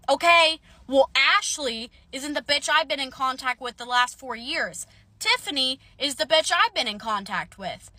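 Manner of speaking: heated retelling of an angry comeback; angry retort. Retold or imitated. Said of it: "I was really fucking angry".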